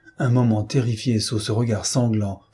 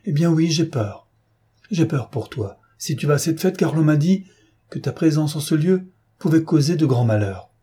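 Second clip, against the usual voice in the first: higher, urgent, mildly fearful; anxious confession; 4 semitones higher than usual. Acted. Wife afraid for her husband at the party, anxious. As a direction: confess the fear with raised pitch.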